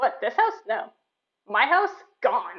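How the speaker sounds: indignant, fed-up, angry, exasperated wizard outburst. Playing the wizard, pointing at the party and answering them: angry wizard voice. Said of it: "other side of this bookcase is the angriest wizard you three have seen all week. He looks frazzled. / And he just points at all of you and goes, / Speaking of the wizard".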